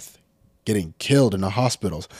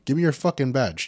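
higher and louder, fast and furious; angry shout; 6 semitones higher, 4 dB louder, faster than usual. Retold or imitated. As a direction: bark for the badge at full volume. Repeated demand, shouted.

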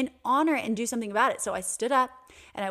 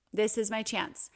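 calm, a little fuller than before; settled resolve; 3 dB quieter than usual. Retold or imitated. To herself in the exam room, calm sure resolve. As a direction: say it as a decision made. Inner thought repeated.

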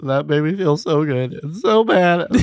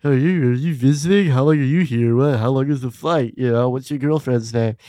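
friendly questions. Shown as a demonstration. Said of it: "So you just be like".

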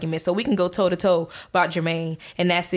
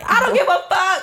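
laughing; 10 semitones higher, 3 dB louder than usual. Real, not acted. Laughing defiant.

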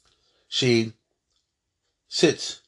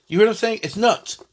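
exasperated exclaim; 8 semitones higher, 4 dB louder than usual. Real, not acted. Teacher exclaims to class.

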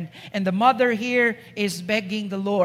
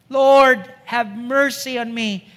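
pleading; 4 dB louder than usual. Acted. Mother begs the Lord for her daughter, crying out. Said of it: "So she's pleading".

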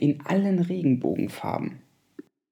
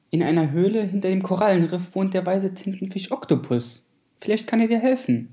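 starfish voice; 5 semitones higher than usual. Acted. Starfish gives advice.

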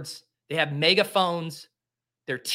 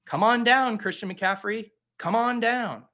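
mock game show host; 5 semitones higher than usual.

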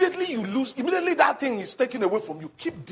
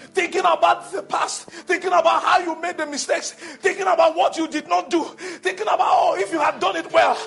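insistent preaching; 6 semitones higher, 4 dB louder than usual. Real, not acted. Preaches a mounting list.

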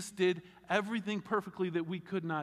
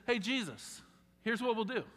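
lightly raised, eager Peter voice; a hint of eager Peter pitching a plan; voicing Peter; 6 semitones higher than usual. Preacher voicing Peter's pitch to Jesus, eager and raised.

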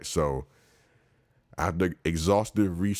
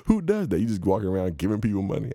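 incredulous; 6 semitones higher, 4 dB louder, faster than usual. Real, not acted. Outraged at the beggar.

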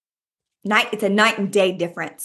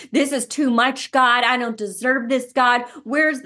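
raised, anguished cry of someone overwhelmed; desperate pleading to God; 4 semitones higher than usual. Acted. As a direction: plead like you're breaking under the burden. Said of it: "You're kicking and screaming".

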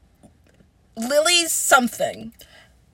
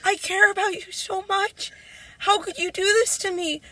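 mildly acted sob-story pleading; retold sobbing plea; 3 semitones higher than usual. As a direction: imitate a tearful, hurt plea. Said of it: "I was sobbing. And I was like".

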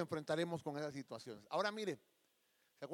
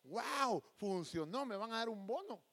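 pitched-up happy surprise, lightly acted; mock delight; 4 semitones higher, slower than usual. Happy worker called to the office, mildly acted excitement. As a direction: marvel at your luck. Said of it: "usted llega bien contento el lunes".

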